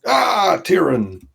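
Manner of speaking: high, loud cheerful hail; cheery greeting. Acted. Player greeting Tyrion in character, very cheerily. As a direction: hail him very cheerily, starting high and falling. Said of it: "greet him very cheerily".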